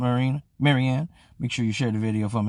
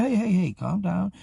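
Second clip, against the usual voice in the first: raised-pitch, placating hey-hey-hey; peacemaker; 6 semitones higher than usual. Retold or imitated. Retelling how he calmed the women down, peacemaker voice. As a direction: break it up without shouting. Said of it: "I'm doing the peacemaker".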